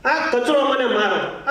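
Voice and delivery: very slow, pleading dustbin voice; loving dustbin plea. Acted. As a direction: coax them tenderly, drawn out. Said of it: "dustbin બિચારું કેટલું પ્રેમથી કહેતો હોય છે".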